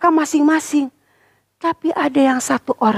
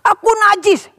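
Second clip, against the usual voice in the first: mournful cry; 9 semitones higher than usual. Acted. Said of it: "Nah, begitu ya".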